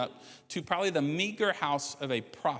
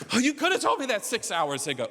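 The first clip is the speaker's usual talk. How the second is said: mock indignant, louder, laughing; sarcastic reply to a late apology, laughing; laughing retort; 5 semitones higher, 4 dB louder than usual. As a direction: laugh out the complaint. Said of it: "I'm like".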